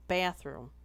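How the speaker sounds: "Bathroom" with a broad, stressed A; emphasis on A. Shown as a demonstration. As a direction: punch the A in "Bathroom". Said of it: "Emphasis on A".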